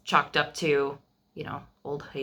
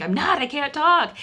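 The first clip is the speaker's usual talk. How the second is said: strained hoarse husband, much higher and louder; imitating husband; 11 semitones higher, 6 dB louder than usual. Husband protesting to wife, imitated strained high voice. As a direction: act out the husband who can't talk. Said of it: "And he's like".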